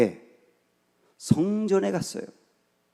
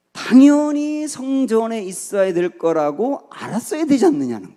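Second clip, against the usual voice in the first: acted surprise; 6 semitones higher, 5 dB louder than usual. Young Jesus expecting parents to know, acted incredulous. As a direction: stretch it out as an obvious point they missed. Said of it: "놀랐다는 거죠".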